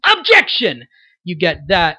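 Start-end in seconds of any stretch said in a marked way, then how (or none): 0.1-0.8 high, loud courtroom yell, weight on the second syllable of Objection; Phoenix. Acted. Voice actor demonstrating a lawyer character's objection, high yell stressed on the second syllable. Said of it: "so that when Phoenix yells".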